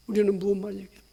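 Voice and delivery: normal talking voice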